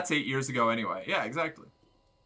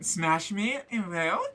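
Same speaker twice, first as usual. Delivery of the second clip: laughing tease; 5 semitones higher, much slower than usual. Pretend. Joking repeat.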